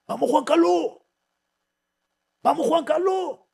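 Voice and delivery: high, loud rallying yell; gym trainer's shout. Retold or imitated. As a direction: shout it like a coach urging on a flagging athlete. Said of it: "ese grito es el de mi entrenador".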